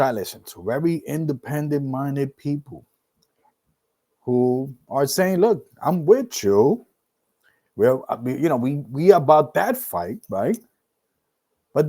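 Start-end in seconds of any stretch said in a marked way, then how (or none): none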